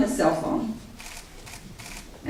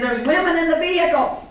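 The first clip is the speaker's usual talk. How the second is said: mild mock yell, pitched higher; calling out a warning to the gunmen behind, raised and urgent; retold scream; 7 semitones higher than usual. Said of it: "he screams back at the people behind".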